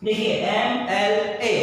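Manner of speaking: एमएलए slow, starting on an open एम; slow demo एमएलए. Shown as a demonstration. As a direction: draw out एमएलए so the एम sound is heard. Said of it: "मैं दोबारा आपको यहाँ पर लिख कर दिखाऊंगा".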